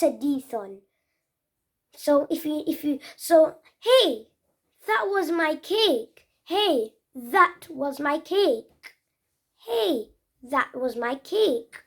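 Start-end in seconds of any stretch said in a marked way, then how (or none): 3.8-9.0 a hint of a protesting child; mild mock complaint; example sentence. Shown as a demonstration. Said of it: "That's a example". 9.7-11.8 slow, careful example; slow clear "that was my cake"; slower repeat. Shown as a demonstration. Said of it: "That's a example".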